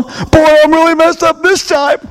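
high, drawn-out mock lament; distressed caller. Christian phoning the pastor for counseling, high mock distress. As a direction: wail it slowly, high in the voice. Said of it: "Christians call me on the phone".

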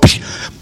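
soft unvoiced pss; a small hiss of the helmet; helmet hiss sound. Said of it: "the helmet went".

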